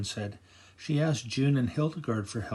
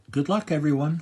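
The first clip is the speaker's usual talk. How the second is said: calling out; 4 semitones higher, 8 dB louder than usual. A narrator's reading. Fairy calls out goodbye.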